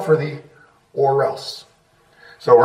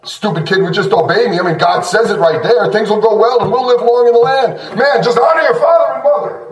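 exasperated parent; 2 semitones higher than usual. Acted. Preacher mimicking parents who blame the kid, exasperated. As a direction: rant like a put-upon parent, rising at the end. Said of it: "See, it's the kid's fault".

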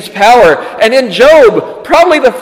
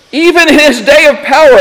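emphasis on "day", pitch raised; stress on day; 6 semitones higher, 4 dB louder than usual. Real, not acted. Preacher limiting the enemy's power, stressing "day". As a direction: lean on the word "day". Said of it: "I emphasize the word day".

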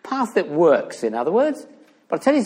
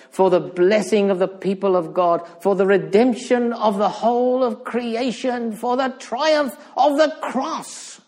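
impassioned preaching; 6 semitones higher than usual. Real, not acted. Preacher proclaiming the triumph of the cross, impassioned preaching. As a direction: build each phrase higher, slowing on the last.

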